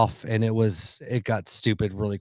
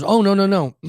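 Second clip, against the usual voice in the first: high, louder imitated protest; hasty reassurance; 8 semitones higher, 5 dB louder than usual. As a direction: wave the worry away in a high voice. Retold clerk hastens to reassure guest.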